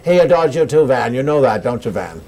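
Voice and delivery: lightly imitating Katharine Hepburn to Van; Katharine Hepburn impression. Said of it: "you're doing your Katharine Hepburn".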